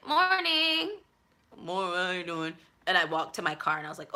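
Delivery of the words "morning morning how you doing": mock cheerful greeting. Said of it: "So I'm just like".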